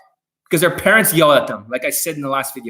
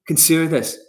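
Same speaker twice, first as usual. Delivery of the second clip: mocking coach phrase. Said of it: "That's how R S D talks to you guys".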